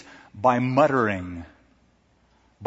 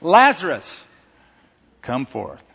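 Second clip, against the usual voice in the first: 1 loud call; 3 dB louder than usual. Acted. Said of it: "So he's very specific".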